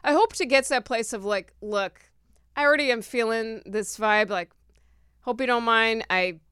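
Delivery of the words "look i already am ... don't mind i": calm polite exit. Pretend. Rehearses polite, firm exit line.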